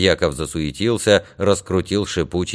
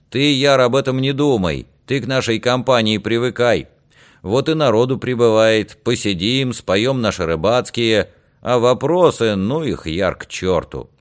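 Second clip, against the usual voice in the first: raised, easygoing reassurance; a touch of hearty tavern persuasion; lightly voiced convivial friend, coaxing; 5 semitones higher, 3 dB louder than usual. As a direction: coax a friend to drop his worries. Friends coax Yar to join in.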